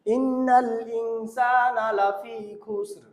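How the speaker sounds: slow chant with plain 'kh' in খুসর; common misreading. Retold or imitated. Teacher imitating how we read it, mispronounced. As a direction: recite it with খুসর starting on an aspirated k. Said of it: "আমরা পড়ি".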